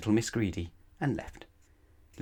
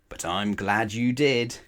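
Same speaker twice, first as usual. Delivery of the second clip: delighted; 3 semitones higher, 6 dB louder, slower than usual. Acted. Mister Greedy delighted.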